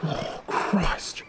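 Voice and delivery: unvoiced muttering; muttered under breath. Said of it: "muttered under his breath".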